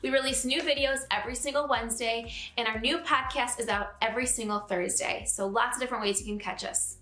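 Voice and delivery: bright, upbeat sign-off over music; outro promo read. Acted. Host asking viewers to like and subscribe, upbeat promo read. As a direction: wrap up the show and pitch the channel.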